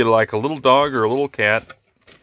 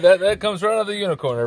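silly high voice; 9 semitones higher than usual. Pretend. Joking about unicorn sound.

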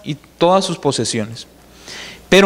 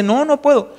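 higher, plaintive no; whiny refusal; 7 semitones higher than usual. Acted. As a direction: whimper it like a scared man. Lot refuses to go on.

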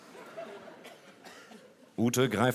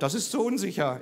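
retold murmur; 8 semitones higher than usual. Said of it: "Ute raunt".

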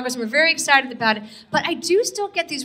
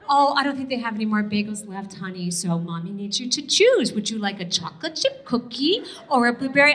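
softer, lower, syrupy patience; calm the child with fake sweetness; a touch of saccharine mom voice; soothing mommy; 4 semitones lower, 3 dB quieter than usual.

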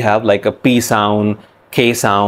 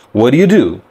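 casual American-accented question; 2 semitones higher, faster than usual. Shown as a demonstration. Teacher showing learners a greeting question, American accent. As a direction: say it the American English way. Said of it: "We generally say in American accent".

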